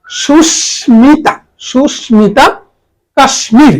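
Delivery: সুস্মিতা and কাশ্মীর with the m fully pronounced; sounded m. Shown as a demonstration. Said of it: "ময়ের উচ্চারণ স্বাভাবিক".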